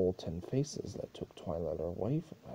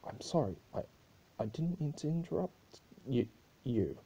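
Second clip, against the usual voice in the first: nervous stuttering guard; 2 semitones higher, faster than usual. Acted. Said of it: "noticing a nervous Solar Guard".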